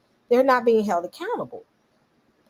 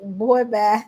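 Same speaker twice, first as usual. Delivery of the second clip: laughing. Retold or imitated. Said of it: "she was like".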